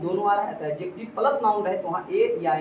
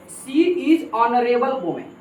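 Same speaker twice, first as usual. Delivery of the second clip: slow dictation pace; slow reading aloud; much slower than usual. Shown as a demonstration. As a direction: read each word out very slowly for the class. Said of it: "इसको देखिए पढ़िए". (धीरे-धीरे पढ़कर सुनाना)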